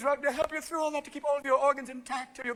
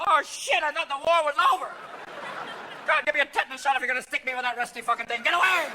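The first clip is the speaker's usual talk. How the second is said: alarmed grandmother; 4 semitones higher than usual. Pretend. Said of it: "your grandmother's going".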